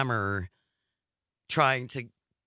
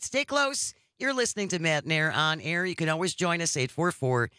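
higher-pitched on-air host sign-off; radio station break; 4 semitones higher than usual. Acted.

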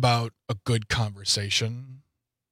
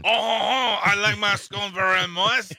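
gushing swoon; 5 semitones higher than usual. Pretend. Gushing about moist bacon scones.

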